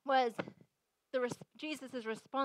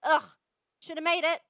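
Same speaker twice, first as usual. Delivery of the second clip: disgusted, dismissive; 5 dB louder than usual. Pretend. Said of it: "he didn't stand back here and say".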